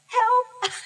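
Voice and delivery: high, loud plea; high loud desperate help; cry for help. Retold or imitated. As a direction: cry out for help like she's drowning. Retold desperate plea to Virginia.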